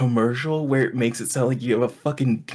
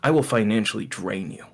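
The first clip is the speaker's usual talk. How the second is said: measured mock-menacing ad voice; lightly voiced ominous narrator; imitating deep-voiced narrator; 3 semitones lower than usual. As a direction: intone it like a sinister voice-over. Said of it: "this guy with a deep voice".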